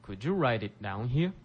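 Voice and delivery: slow, careful teacher model line; slow model read. Shown as a demonstration. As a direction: say it slowly for learners to repeat. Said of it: "皆さんも一緒にリピートしてください".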